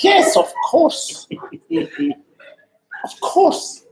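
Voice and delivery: very high, slow, eager "yes"; eager squeal. Retold or imitated. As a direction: squeal your acceptance. Eager acceptance, laughing.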